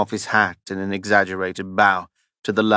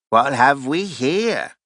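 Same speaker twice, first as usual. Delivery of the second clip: called out; 5 semitones higher, slower than usual. A narrator's reading. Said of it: "one of them called out".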